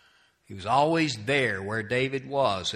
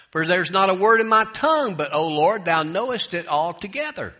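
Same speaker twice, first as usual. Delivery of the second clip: raised, ringing verse reading; scripture reading; 5 semitones higher, 5 dB louder than usual. Acted. Preacher reads David's psalm to congregation, declaimed scripture.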